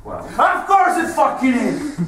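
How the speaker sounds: high, emphatic retort; exasperated, pitch jumping up; heated outburst. Acted. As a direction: burst out with the blunt answer. Interrogator answers own moral question.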